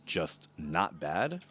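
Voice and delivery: slow, drawn-out cartoon bear voice; a lightly voiced cartoon bear, slowly asking; Yogi Bear voice. Brian asks the dad about his party, slow Yogi Bear voice. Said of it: "a fucking Yogi Bear accent".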